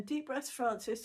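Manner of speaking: slow, lightly voiced gentle nurse; a hint of a coaxing nurse, slowly; lovely soothing voice. Nurse reminding drowsy patient to breathe, mild slow soothing. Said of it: "this lovely voice saying".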